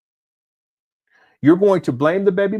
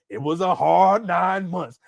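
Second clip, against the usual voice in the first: lightly voiced mock father, slowed down; mock Umar, slow. Host mocks the father's pregnancy claim, slow and mock-serious. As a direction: drag out the fake hardship. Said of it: "I said it was a hard nine".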